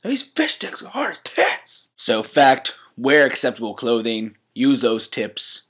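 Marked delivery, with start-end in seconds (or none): 0.0-1.9 high silly voice. Acted. Random quoted movie line.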